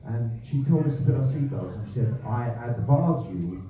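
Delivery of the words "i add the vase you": put-on terrible South African accent. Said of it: "terrible, terrible accent".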